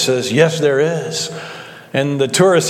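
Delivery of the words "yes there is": slow, unhurried answer; calm voice from heaven, gently acted. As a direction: answer evenly, taking your time. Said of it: "it's a calm voice".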